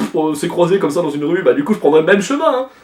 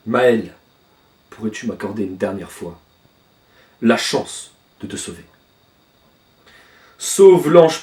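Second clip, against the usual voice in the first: solemn low plea; 4 semitones lower than usual. Acted. Gantha asking Maël for a last chance, low and solemn. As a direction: ask it gravely, almost a prayer.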